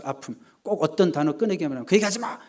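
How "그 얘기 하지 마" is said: higher, acted flare of temper; imitating a touchy person losing it; mock angry outburst. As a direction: cut someone off in mock anger. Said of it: "이러면서 막 화내는 사람이 있죠".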